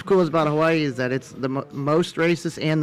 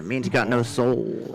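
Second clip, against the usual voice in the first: slow explanation; much slower than usual. Shown as a demonstration. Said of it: "Ha is the breath of life".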